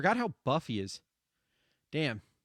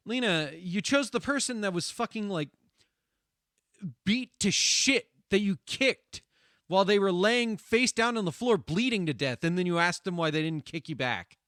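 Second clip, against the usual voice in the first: indignant retort; 4 dB louder than usual. Retold or imitated. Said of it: "And it's like".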